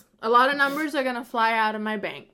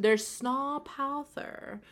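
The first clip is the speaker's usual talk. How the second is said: Scottish accent; 4 semitones higher, much slower than usual. Shown as a demonstration. Cohosts showing off Scottish snow words, slow Scottish accent. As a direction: roll out the Scots words slowly like a Highlander. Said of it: "you have to do it in a Scottish accent".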